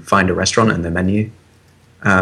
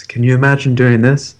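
soft-spoken ad voice; 4 semitones higher than usual. Retold or imitated. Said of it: "soft-spoken, Apple-y sort of ad".

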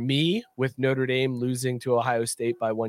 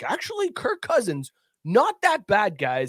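mock know-it-all fan; 4 semitones higher than usual.

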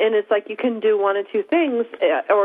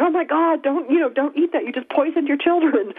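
put-on German accent; 6 semitones higher than usual. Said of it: "she says that in a delightful German accent".

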